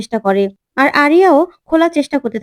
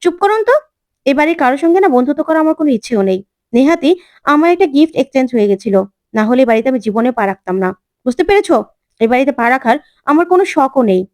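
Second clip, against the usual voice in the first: angrier retort. Acted. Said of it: "আরিয়া আরো রেগে যায়".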